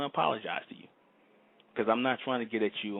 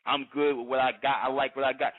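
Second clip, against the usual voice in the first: mocking a smug listener; 3 semitones higher, 5 dB louder than usual. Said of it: "this is what I'm talking about".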